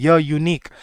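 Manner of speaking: य then यूनिक, y sound first; sound demo. Shown as a demonstration. Teacher showing य at the start of यूनिक. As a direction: begin यूनिक on a clear y. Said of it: "पहली sound य की आती है".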